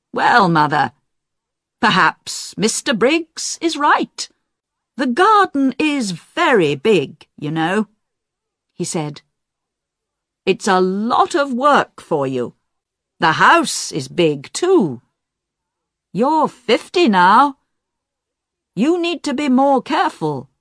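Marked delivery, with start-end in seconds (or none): 0.1-7.9 grown son Roger. Acted. Roger persuades his mother. 10.4-20.5 grown son Roger. Acted. Roger persuades his mother.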